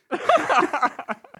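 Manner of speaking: high loud laugh; high burst of laughter. Real, not acted. Laughs after the flub.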